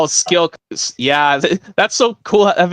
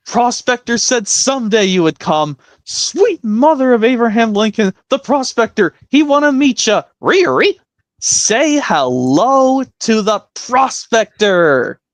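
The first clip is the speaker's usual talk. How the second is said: put-on high excited old-timer; old prospector voice; 4 semitones higher than usual. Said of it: "now this impression".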